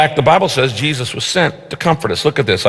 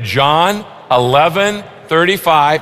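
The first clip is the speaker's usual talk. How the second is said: slow recitation; 2 semitones higher, slower than usual. Shown as a demonstration. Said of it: "Let's say it".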